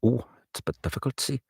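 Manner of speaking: quick Geordie lilt; rising Newcastle character line; Newcastle accent. Shown as a demonstration. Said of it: "Newcastle's an awfully difficult accent".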